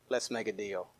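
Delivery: low, hushed bargaining plea; mock pleading hush. Preacher voicing Pharaoh bargaining with God, hushed. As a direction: murmur it like a sly bargainer. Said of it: "he began to say".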